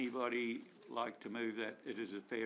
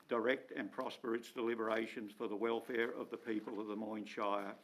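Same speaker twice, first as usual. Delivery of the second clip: prayer. Acted. Mayor opens meeting with prayer.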